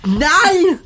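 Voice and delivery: put-on German accent. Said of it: "L'accent allemand".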